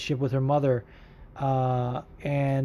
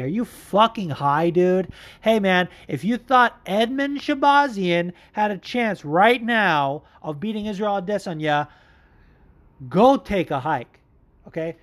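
higher and slower, disbelieving; incredulous scoff; 5 semitones higher than usual. Real, not acted. Podcast host mocking overhyped fans, incredulous scoff. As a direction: scoff at the idea, drawing it out.

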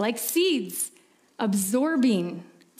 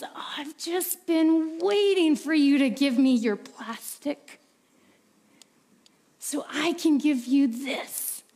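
loving father; 3 semitones higher than usual. Acted. Father reveals real pearls.

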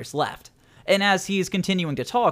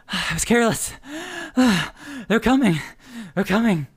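desperate warning; 5 semitones higher than usual. Acted. Wounded runner warns.

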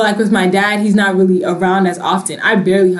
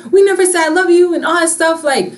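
emotional outburst; 8 semitones higher than usual. Retold or imitated. Teen complaining to family about no affection, emotional. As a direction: plead with the family, all worked up. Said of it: "I used to get emotional".

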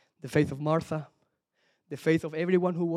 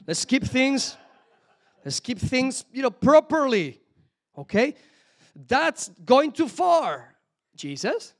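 prim British Martha; 5 semitones higher, 4 dB louder, slower than usual. Acted. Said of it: "she was probably British".

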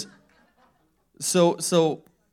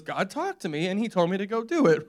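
higher-pitched retort to a baffled wife; matter-of-fact defence; 5 semitones higher than usual. Retold or imitated. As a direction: imitate a husband explaining the obvious. Husband explains himself to wife.

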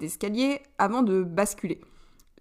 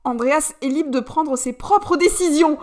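higher, louder and slow outburst; a bit too high-pitched; 6 semitones higher, 5 dB louder, slower than usual. A narrator's reading. Cali defying the duke, voice a touch too shrill. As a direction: blurt it out, voice climbing too high. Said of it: "d'une voix un petit peu trop aiguë".

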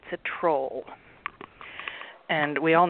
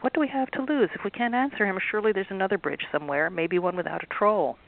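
hopeful Ellie; 3 semitones higher than usual. Acted. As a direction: talk her friend into trying. Ellie reasons with Maribel.

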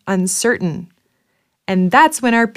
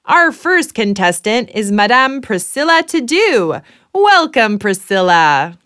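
game show host. Acted.

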